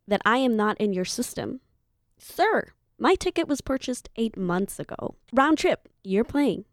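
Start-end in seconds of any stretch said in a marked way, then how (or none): 2.2-6.6 sharp high "Sir", then incredulous; retold indignant push-back at the desk; indignant protest. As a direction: tell him he must be joking. Arguing with the check-in agent.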